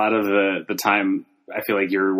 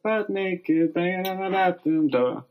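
dramatic narration; 10 semitones higher, slower than usual. Acted. Dramatic movie scene setting.

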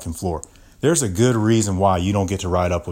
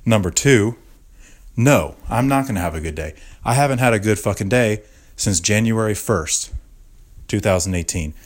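angry rant. Acted. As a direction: vent it like she wronged you. Ranting angrily about coworker.

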